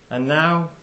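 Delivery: lightly imitated Brooklyn accent. Speaker quoting a violinist before his encore, light Brooklyn accent. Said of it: "with a lovely Brooklyn accent".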